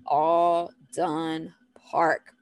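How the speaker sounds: very slow, word by word; deliberate, evenly spaced cue; slow teaching phrase. Shown as a demonstration. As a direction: separate each word clearly. Restates the key phrase slowly.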